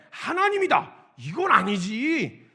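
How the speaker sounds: David refusing to accept the insult; righteous anger. Retold or imitated. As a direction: flare up, then plant your feet. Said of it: "그걸로 화를 냈었던".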